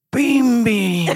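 high-pitched mimic; high mimicking. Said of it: "miming you and goes".

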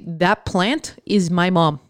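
slow quiet mock belief; mock delusional. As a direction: say it as if you truly believe. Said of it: "you literally say".

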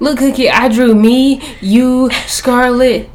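put-on high-pitched child voice; imitated little kid. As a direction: imitate a proud kid showing a drawing. Imitates child showing a picture.

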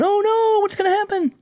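high, mock-panicked "oh no"; mock worried. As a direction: imitate a fretting host, squeaking. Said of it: "Dave's going".

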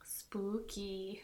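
breathy spooky whisper. Acted. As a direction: hush it like a ghost story. Echoing spooky season, whispered.

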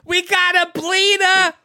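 loud high shout; calling out. Pretend. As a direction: shout it out like an alarm. Calling out injury.

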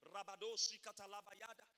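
speaking in tongues. Retold or imitated. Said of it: "I prayed in the Holy Ghost".

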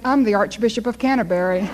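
lightly sweet and innocent, playing the angel; sweetly innocent. Little boy to the officer, mildly sweet and innocent. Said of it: "looked up at the officer so sweetly".

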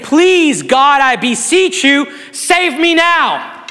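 slow, mild imitated plea, dragging out "save me now"; a touch of desperate begging, not overdone; begging prayer. Pastor voicing a sinner's cry to God, mild slow begging. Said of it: "describe it as a begging".

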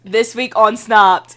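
loud, slow show intro; hammed-up episode teaser voice; mock TV announcer. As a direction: announce it like a true-crime promo. Spoof true-crime show intro.

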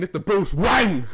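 slow, emphatic mock Asian accent. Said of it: "he speaks in an Asian accent".

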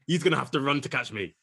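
ordinary talk, nothing marked

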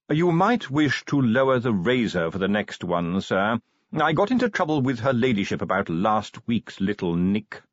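lightly voiced deferential manservant; tactful butler. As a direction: offer careful advice to the master.

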